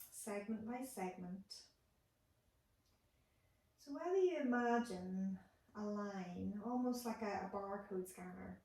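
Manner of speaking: calm instructing voice with long pauses; guided meditation. Acted. Therapist guiding listeners lying on the floor, calm meditation voice. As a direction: guide a body scan, unhurried, pausing between steps. Leads a guided body scan.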